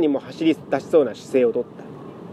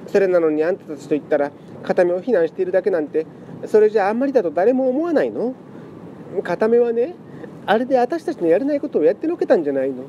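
tearful pleading; 4 semitones higher than usual. Acted. Lament cat pleads emotionally.

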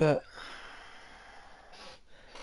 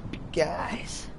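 whisper. Real, not acted. Warning about big enemies.

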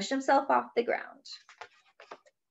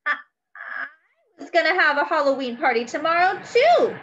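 tearful; 6 semitones higher, 5 dB louder than usual. Acted. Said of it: "her cheeks wet with tears".

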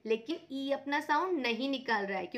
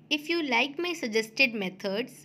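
slow outro; 2 semitones lower, 3 dB louder, much slower than usual. Real, not acted. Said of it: "outro request".

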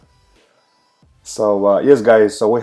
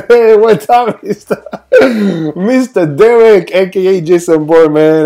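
excited greeting; 8 semitones higher, 7 dB louder than usual. Real, not acted. Greeting a commenter on stream.

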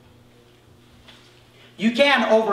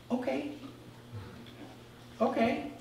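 resigned okay; 5 semitones higher, 16 dB quieter than usual. Retold or imitated. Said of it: "resigned answer to God".

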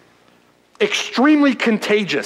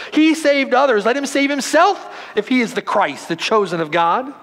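sarcastic sneer; 4 semitones higher than usual. Acted. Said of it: "the sarcasm in their voice".

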